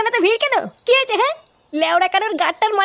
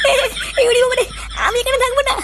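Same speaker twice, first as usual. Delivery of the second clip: scared wail; 4 semitones higher, faster than usual. Acted. Frightened villager refusing to stay, scared wail. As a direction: whimper that you want to go home. Man scared by ghost rumour.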